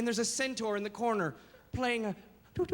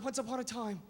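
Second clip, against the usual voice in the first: storybook opening; 3 semitones higher than usual. Shown as a demonstration. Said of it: "they all start".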